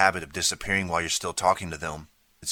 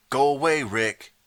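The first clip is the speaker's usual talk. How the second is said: put-on higher, loud girl's yell; repeated shout; 7 semitones higher, 6 dB louder, slower than usual. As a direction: shout him off again, fed up. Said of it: "she repeated".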